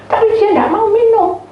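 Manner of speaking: high, loud upset wail; child's complaint. Retold or imitated. Child reports mother won't drink, high complaint.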